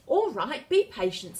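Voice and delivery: patient princess. A narrator's reading. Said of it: "said Priscilla".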